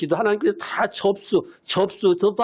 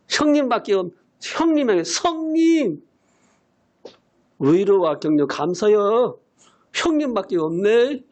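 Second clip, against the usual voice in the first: friendly Jeolla accent, a hint put on; Jeolla dialect. Pastor imitates his friend thanking him in mild Jeolla dialect. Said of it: "전라도 사투리로".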